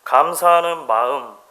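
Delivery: slow, measured reading of verse; poem recitation. Acted. Preacher closing with a poem to the church, measured recital. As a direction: recite it slowly, weighing each phrase. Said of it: "시가 이렇게 이야기를 해요".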